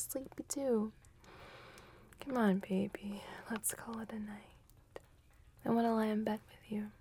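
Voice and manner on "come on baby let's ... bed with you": whispering. Acted. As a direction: breathe it close and hushed. Whispered girlfriend roleplay.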